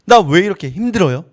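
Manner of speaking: acted, aggrieved remonstrance; arguing with God. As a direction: take God to task, pressing each complaint. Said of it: "모세가 하나님께 따지는 겁니다".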